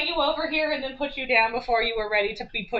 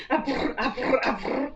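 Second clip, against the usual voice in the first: imitating purring. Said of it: "What are you purring at me".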